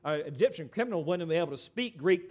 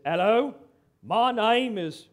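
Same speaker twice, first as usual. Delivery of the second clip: slow, badly faked Australian greeting; horrible Australian accent; 5 dB louder, slower than usual. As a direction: attempt a clumsy Australian accent. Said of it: "forgive my horrible Australian accent this morning".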